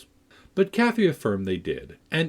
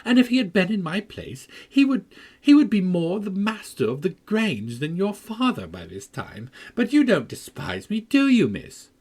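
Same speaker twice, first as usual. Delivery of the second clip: put-on higher, plaintive boyish voice; a whiny invalid boy pleading; sickly boy's voice; 10 semitones higher, 4 dB louder than usual. A narrator's reading. Linton pleading with Cathy, high and plaintive.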